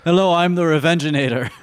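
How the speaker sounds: mock robot intro. Voicing a robot.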